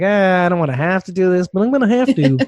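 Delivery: mild put-upon reluctance, acted out; grudging middle manager. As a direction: play a weary middle manager giving in. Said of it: "that middle management kind of attitude".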